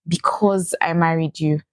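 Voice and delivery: tender, whispered. Real, not acted. Tender declaration to husband.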